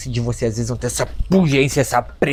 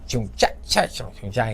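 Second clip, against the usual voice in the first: funk beat imitation; 3 dB quieter, slower than usual. Shown as a demonstration. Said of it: "que é os funkeiros".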